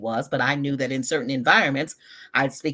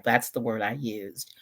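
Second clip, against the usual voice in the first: an unvoiced whisper, softer; whispered aside; 4 semitones lower, 5 dB quieter than usual. Real, not acted. Recalling the word she used, whispered aside.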